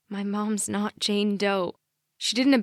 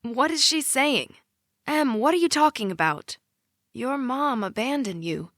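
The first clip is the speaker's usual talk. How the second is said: shocked mother; 4 semitones higher than usual. Acted. Shocked mom confronts daughter.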